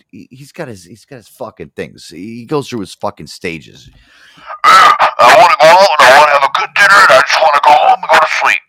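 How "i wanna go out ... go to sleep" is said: loud, higher mock-grumpy dad voice; grumpy dad rant. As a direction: belt it out like a cranky father. Son quotes grumpy dad.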